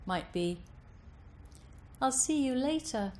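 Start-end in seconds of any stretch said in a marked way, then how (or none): 2.0-3.1 natural speech, pitched higher; slight tilt. Shown as a demonstration. Voice coach showing tilt in natural speech, lightly raised. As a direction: lift the pitch gently without strain. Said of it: "more natural speech with a little bit of tilt".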